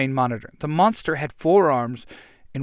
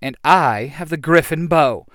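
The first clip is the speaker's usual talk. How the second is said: triumphant yell; 5 dB louder than usual. Acted. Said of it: "the Pink Ranger yells".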